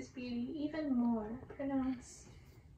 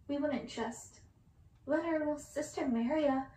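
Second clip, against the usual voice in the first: accusing shout; 2 semitones higher, 4 dB louder than usual. Acted. Sisters to the prince, accusing shout. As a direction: throw the word monster at him. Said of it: "they shouted accusingly in unison".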